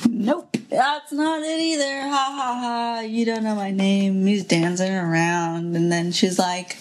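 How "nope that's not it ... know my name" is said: gleeful gloating. Acted. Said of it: "he's so excited".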